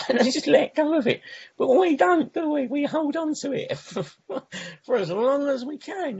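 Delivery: high-pitched, laughing through the words. Real, not acted. Speaker jokes to the fellowship about holding on to resentments, laughing. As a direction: laugh as you own up to a shared failing.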